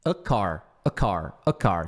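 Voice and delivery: "a car" run together as one word; a car said smoothly. Shown as a demonstration. Teacher drilling students, low and joined: a car. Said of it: "é fácil falar".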